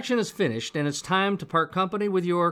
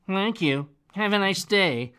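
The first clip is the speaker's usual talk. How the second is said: bored nasal brush-off; nasal, disconnected. Shown as a demonstration. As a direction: say it flat and nasal, like a chore. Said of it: "Sounds kind of nasally, doesn't it? And very disconnected".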